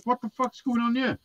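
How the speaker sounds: high-pitched retold bafflement; baffled disbelief. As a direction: recount being baffled, voice lifted. Retelling his baffled reaction.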